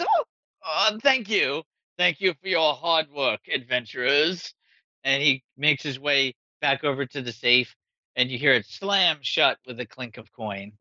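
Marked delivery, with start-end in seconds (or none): 0.0-4.5 jolted by a kick in the shin, blurting thanks; startled yelp into thanks. Acted. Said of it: "kicks him in the shin and he goes".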